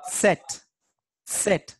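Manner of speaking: "set" begun with a T and S sound; isolated, carefully demonstrated "set"; German Z as TS. Shown as a demonstration. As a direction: say set slowly as the German letter Z. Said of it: "T and S sound".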